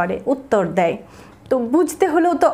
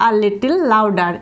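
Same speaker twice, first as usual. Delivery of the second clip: slow spelling-lesson read; 3 semitones lower, much slower than usual. Shown as a demonstration.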